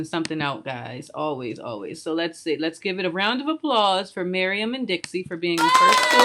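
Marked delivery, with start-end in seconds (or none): 2.6-6.3 hyped announcement. Real, not acted. Calling for applause on stream.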